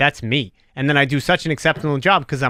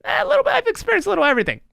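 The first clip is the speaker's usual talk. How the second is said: mock sassy; faster than usual. Playful boast about his cultures.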